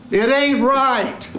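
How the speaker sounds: very high, slow, held cry; full-out demo line. Shown as a demonstration. Coach showing a student the blurred ending, high drawn-out cry. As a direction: wail the line high and long.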